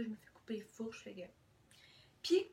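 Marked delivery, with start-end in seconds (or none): 0.0-1.2 chuchoté. Real, not acted. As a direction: whisper it like a small confession. Whispered aside continues. (aparté chuchoté et lent)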